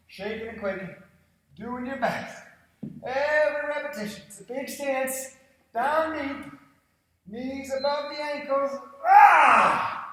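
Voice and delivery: high loud coaching shout; straining shout. Real, not acted. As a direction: push through the burn, yelling. Coach pushes through hard set.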